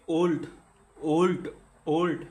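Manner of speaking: ওল্ড in one firm beat, repeated; one-beat demonstration. Shown as a demonstration. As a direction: say ওল্ড as a single loud syllable, pausing between repeats. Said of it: "উচ্চারণ করেন এটাকে".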